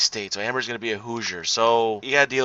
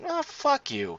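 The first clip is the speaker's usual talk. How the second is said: exasperated outburst; 4 dB quieter, slower than usual. Real, not acted. Exasperated at troll comment.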